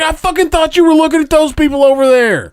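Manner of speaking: high, loud, laughing disbelief; laughing exclamation. Retold or imitated. Friend finishing the lazy-eye story, laughing loudly. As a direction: blurt it out while cracking up.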